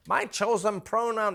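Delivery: lightly voiced alien creature; a hint of an alien. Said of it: "this is my, uh, alien voice".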